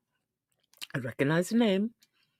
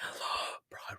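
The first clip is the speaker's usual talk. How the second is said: breathless unvoiced whisper after a gasp; 9 dB quieter, slower than usual. Real, not acted. Streamer gasping over her love of Broadway. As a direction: whisper it in awe.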